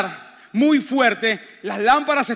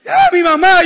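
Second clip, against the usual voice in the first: loud, high imitated cry of alarm; wife's panicked cry; 7 semitones higher, 8 dB louder than usual. Husband mimics wife fretting for her mother, panicked cry. Wife screaming in the earthquake, retold.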